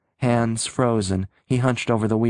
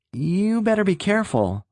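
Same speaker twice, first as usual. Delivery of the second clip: higher, worried caution to the driver; troubled warning; 10 semitones higher than usual. A narrator's reading. Hitchhiker to speeding Rick, troubled warning. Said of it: "the youth warned in a troubled voice".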